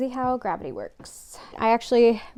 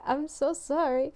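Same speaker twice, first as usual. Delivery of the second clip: higher-pitched imitated apology; 6 semitones higher than usual. Seller apologising to a customer about sold-out yarn, imitated apologetically. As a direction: mimic a seller's sympathetic sorry, pitched up.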